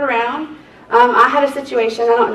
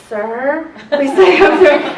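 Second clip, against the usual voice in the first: louder and higher, losing patience; insistent louder plea; exasperated repeat; 4 semitones higher, 4 dB louder than usual. Retold or imitated. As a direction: raise it, you've said it a hundred times. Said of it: "I must have said it a hundred times".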